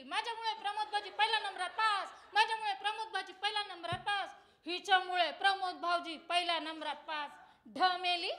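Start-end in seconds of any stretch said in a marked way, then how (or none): 0.0-7.3 mocking a braggart. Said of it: "गावभर बोंबलत सुटली".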